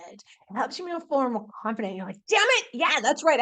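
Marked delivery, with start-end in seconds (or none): 2.3-3.4 fired-up self-talk. Retold or imitated. Voicing confident self-talk.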